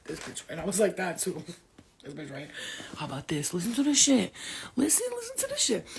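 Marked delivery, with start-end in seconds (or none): 3.5-5.9 much higher excited listen; squealing call to listen. Real, not acted. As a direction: shriek for attention.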